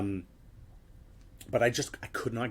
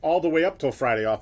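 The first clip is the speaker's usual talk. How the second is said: urgent instructions; 4 semitones higher, 7 dB louder than usual. Retold or imitated. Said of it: "I started talking to everybody".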